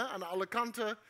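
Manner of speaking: ordinary talk, nothing marked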